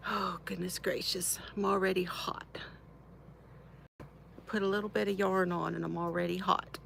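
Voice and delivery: breathless whisper, all air and no voice. Real, not acted. Whispering to her viewers that she is already hot. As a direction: whisper it as if worn out by the heat. Overheated after putting on yarn.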